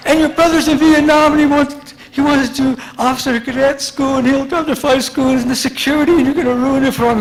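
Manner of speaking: high-pitched mother's tirade; ranting mom. Retold or imitated. Mom's tirade continues.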